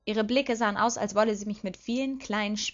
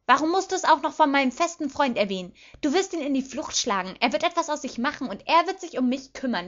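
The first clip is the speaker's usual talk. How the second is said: higher, agitated, reproachful outburst; angry tirade; 5 semitones higher, 4 dB louder than usual. A narrator's reading. Petunia accuses her sister of ruining things, angry. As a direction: pour out grievances with raised pitch.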